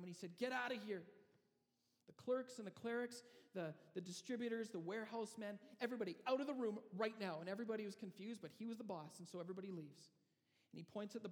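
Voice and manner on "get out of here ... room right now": commanding order. Acted. The younger brother orders his workers out, commanding shout. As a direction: clear the room like the boss.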